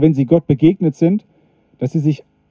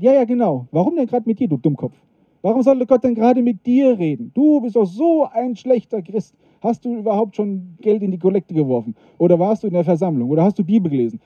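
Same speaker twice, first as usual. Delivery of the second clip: higher, mocking devil voice; devil on the shoulder; 4 semitones higher than usual. Devil on the shoulder taunting the doubting believer, mocking and higher. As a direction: taunt like a sneering little devil. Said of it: "sitzt der Teufel hier auf der Schulter und sagt".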